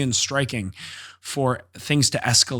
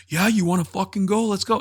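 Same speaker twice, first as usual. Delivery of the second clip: higher, mock tough-guy taunt; imitating a fighter's challenge; 8 semitones higher than usual. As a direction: throw down the challenge like a cocky fighter. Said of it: "he's like".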